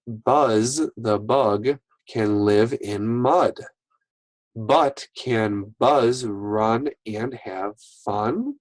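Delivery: slow, clear read-aloud; reading aloud to kids. Shown as a demonstration. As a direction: read it out clearly for young readers. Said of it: "use these words in a sentence".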